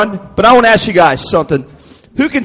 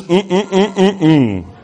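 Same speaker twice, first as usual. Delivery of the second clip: short repeated "mm" grunts; put-on solemn prayer noises; mock pious humming; 3 semitones lower, slower than usual. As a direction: hum like an over-serious adult at prayer. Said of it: "and make noises".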